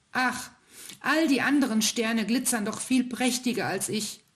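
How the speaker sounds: hohe, schmollende Kinderstimme des kleinen Sterns; verdrossener kleiner Stern. Acted. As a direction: klagend und beleidigt, als kleiner Stern. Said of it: "antwortete der kleine Stern verdrossen". (kleiner Stern klagt dem ältesten Stern verdrossen sein Leid)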